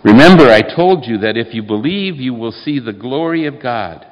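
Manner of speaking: loud, ringing proclamation; Jesus booming his reminder to Martha; proclaiming Jesus. Acted. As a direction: declare it with full force. Jesus answering Martha, read aloud.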